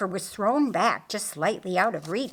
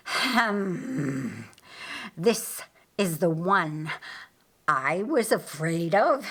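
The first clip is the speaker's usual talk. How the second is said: scornful, self-satisfied villain; gloating Lucifer. Acted. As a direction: Lucifer sneering over Jesus at his feet. Lucifer gloats over Jesus.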